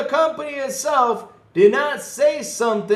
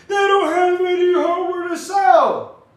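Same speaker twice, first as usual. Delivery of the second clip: louder, slow, pounding point; emphatic shout; 9 semitones higher, 6 dB louder than usual. Real, not acted. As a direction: hammer it home. Ranting point.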